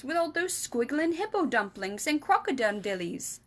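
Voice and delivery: lightly voiced giant, building up as he imagines it; worried giant. Giant telling Sophie why she was taken, lightly voiced anxious giant. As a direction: giant spinning a fearful tale.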